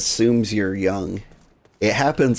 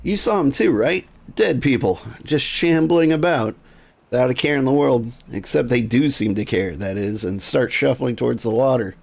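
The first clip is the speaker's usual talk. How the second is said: higher, breathless rush about the shambling dead; spooked eager NPC; 4 semitones higher than usual. Acted. Nervous villager asking the adventurer about the dead, higher and rushed. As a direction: pitch it up like a jittery gossip.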